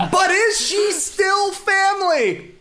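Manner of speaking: slow, high dramatic trailer announcer; movie trailer voice. Pretend. Trailer voice tease.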